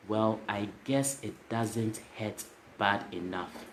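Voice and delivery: retelling the punchline, slow and soft. Shown as a demonstration. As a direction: repeat it slowly so it sinks in. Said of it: "I'll say that again".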